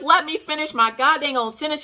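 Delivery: high indignant retort; mock indignant snap. High indignant snap at husband who calls her crazy. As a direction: cut him off, offended.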